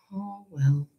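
soft unvoiced whisper; breathy sigh. Ruby giving up on the story, a soft whispered sigh. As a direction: let it out on a trembling breath.

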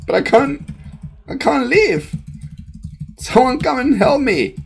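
pleading cry. Acted. Trapped, crying out for help.

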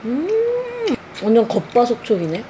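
talking while chewing; muffled by food in mouth; mouth full of bread. Real, not acted. Seen 0: bite taken before; holds bread, chewing while talking.

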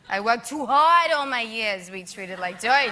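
put-on Jewish grandmother accent; Jewish granny accent. Shown as a demonstration. Actress showing her Jewish granny roles, granny accent. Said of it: "You're very good with accents".

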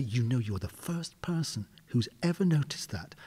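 hushed confiding whisper. Retold or imitated. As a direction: breathe it like a secret compliment. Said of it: "She said to me".

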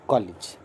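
कॉलेज said as kɔlij, with an ई sound after ल; कॉलेज with a clear ee after the L; correct pronunciation. Shown as a demonstration. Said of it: "ल के बाद ई sound बोलना है". (कॉलेज का शुद्ध उच्चारण, ल के बाद ई)

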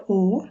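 ও held a little long; drawn-out O. Shown as a demonstration. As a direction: stretch the Swedish ও slightly. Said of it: "একটু টান থাকে". (একটু টান দিয়ে ও)

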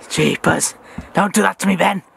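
Jeepers said out loud and strong. Real, not acted. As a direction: call out Jeepers with a start. Startled after a scare.

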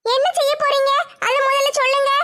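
put-on a stubborn girl holding her ground; young woman Nimmi. Nimmi demanding.

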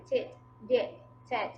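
tit said crisply, the teacher's model of the ed sound. Shown as a demonstration. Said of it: "ออกเสียงเป็น tit".

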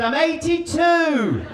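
put-on high, slow, croaky old lady voice; mock old woman squeak; old stewardess. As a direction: play a frail elderly stewardess. Old stewardess retort, stand-up bit.

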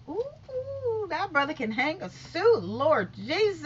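high swooning admiration; admiring swoon. Real, not acted. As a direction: swoon over the suit.

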